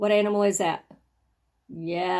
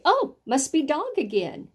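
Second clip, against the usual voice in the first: higher-pitched mock realization; hasty guess; 5 semitones higher than usual. Teacher imitates a child guessing at a word, mock surprise. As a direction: blurt it like a careless guesser. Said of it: "don't wanna just guess and say".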